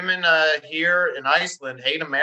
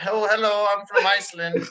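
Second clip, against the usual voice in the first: higher-pitched pretend Icelandic accent; fake Icelandic accent; 4 semitones higher than usual. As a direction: put on a phony Icelandic accent to pass as local. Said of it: "faking an accent".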